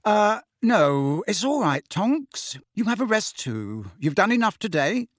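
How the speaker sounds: a touch of nervous reassurance; apprehensive. A narrator's reading. Anxious host putting off Tonks's offer of help, apprehensive. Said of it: "looking apprehensive".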